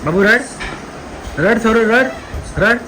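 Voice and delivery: high, loud teasing sing-song. Real, not acted. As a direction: tease the little one in a high, loud voice. Teasing baby to cry. (बाळाला उंच, मोठ्या आवाजात लाडिक चिडवणं)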